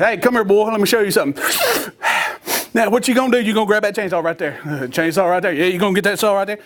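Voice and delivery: lightly hammed-up country dad; a hint of comic father voice; exaggerated dad voice. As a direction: play up a folksy dad giving orders. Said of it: "He didn't quite talk like that".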